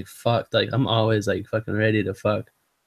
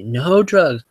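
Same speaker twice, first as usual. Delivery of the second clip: mock yell; 4 semitones higher, 4 dB louder than usual. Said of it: "he kept screaming at me".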